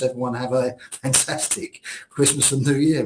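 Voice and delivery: real laugh breaking into a festive wish. Real, not acted. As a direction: wish them well while trying not to laugh. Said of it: "I really can't say without laughing".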